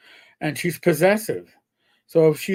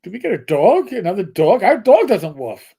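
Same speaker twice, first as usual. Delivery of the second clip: retold bewilderment; 2 semitones higher, 7 dB louder than usual. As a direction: ask it in baffled disbelief. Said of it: "I'm like".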